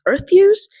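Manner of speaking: a sudden high gasp of disbelief; reading it out, shocked at the number; gasping surprise. Retold or imitated. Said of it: "I gasped".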